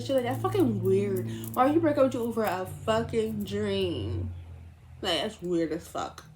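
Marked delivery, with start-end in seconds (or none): 0.2-4.3 lightly voiced friend's disbelief; mock her friend's blunt take; imitating friend. Quoting her friend on the phone, lightly voiced disbelief. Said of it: "I make her sound like that".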